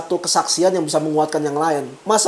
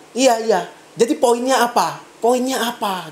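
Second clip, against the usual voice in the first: mildly sarcastic retold jab, slightly raised; 2 semitones higher than usual. Cell group leader cutting into a member's long story, sarcastic. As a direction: needle them with a mock-patient question. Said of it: "dengan nada nyindir".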